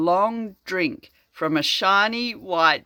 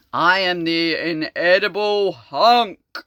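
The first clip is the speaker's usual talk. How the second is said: a hint of a booming monster, slow; slow, louder monster announcement; lightly voiced monster; 5 dB louder, slower than usual. Reading a comic aloud, the monster's mild booming voice.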